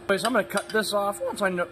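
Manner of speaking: goose-like voice crack. Real, not acted. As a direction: voice breaks up like a goose honk. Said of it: "I did it again".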